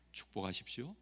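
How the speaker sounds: hushed call to bless; soft exhortation. Real, not acted. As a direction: urge them gently under the breath. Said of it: "repeated exhortation".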